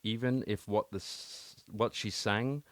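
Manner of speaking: measured poem recital with deliberate pauses; poetry reading. Acted. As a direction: read the verse slowly, phrase by phrase. Reads a poem aloud.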